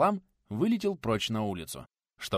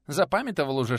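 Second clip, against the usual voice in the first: запамятовал said high and loud; teasing question; 5 semitones higher, 5 dB louder than usual. Acted. Nikodim teasing the teacher, запамятовал high and loud. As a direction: ask запамятовал with a mocking lift.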